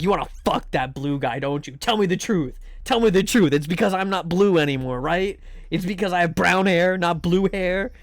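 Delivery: hammed-up jealous accusation; mock angry. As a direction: imitate an angry message, mildly indignant. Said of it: "angry D Ms from Agumi".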